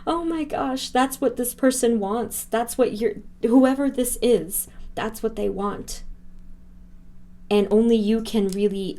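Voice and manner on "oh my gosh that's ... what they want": higher, emotional rush of joy; excited. Real, not acted. Reader thrilled by the cards showing old friends, excited. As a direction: let the joy lift your voice.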